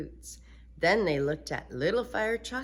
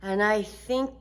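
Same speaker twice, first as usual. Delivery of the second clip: put-on high eager girl, getting louder; little girl pushing ahead; Sheila's voice; 6 semitones higher, 8 dB louder than usual. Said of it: "said Sheila".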